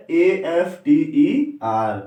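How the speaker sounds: teacher reading out the example; slow spelled word. Shown as a demonstration. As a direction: stretch the word after. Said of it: "जैसे दिया है".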